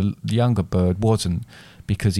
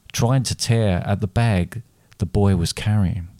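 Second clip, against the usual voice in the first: usual speaking voice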